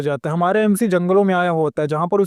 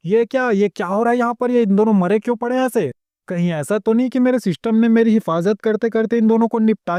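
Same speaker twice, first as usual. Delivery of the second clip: shocked; 2 semitones higher than usual. Acted. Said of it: "चौंक जाता है और बोलता है".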